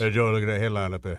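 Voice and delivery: put-on manly voice. A show co-host shows his partner how to say his line, in a man voice. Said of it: "I'll look when you use your man voice".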